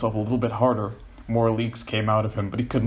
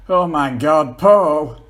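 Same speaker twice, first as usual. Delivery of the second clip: surprised; 6 semitones higher, 10 dB louder, much slower than usual. Acted. John laughs at Paul squirming.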